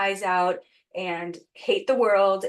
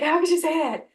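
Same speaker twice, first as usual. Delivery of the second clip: gasp, then high, louder indignant disbelief; retold shocked reaction; 9 semitones higher, 4 dB louder than usual. Hurt woman recalling her reaction to a trusted mentor's blunt words, shocked. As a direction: act out being stunned and affronted. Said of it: "my first reaction was".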